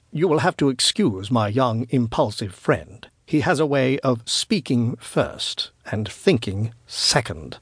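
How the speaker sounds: lightly voiced, measured older traveller; apologetic elder wise man. Elder excuses his impulsive young friend, measured and apologetic.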